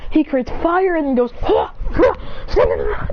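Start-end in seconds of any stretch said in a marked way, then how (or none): 1.4-3.1 short, punchy attack shouts; fighting grunts. Acted. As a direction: puff out a yell with each blow. Acted punching and kicking fire.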